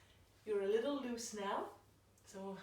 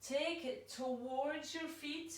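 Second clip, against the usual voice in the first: towards drawn out slowly and leaned on; stress on towards; 3 semitones higher, slower than usual. Shown as a demonstration. Yoga teacher guiding the class into the twist, stressing towards. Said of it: "I really stress the word towards".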